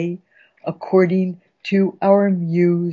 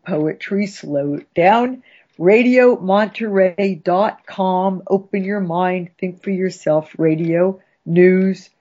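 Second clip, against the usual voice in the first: station ident. Acted. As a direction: announce it with flourish.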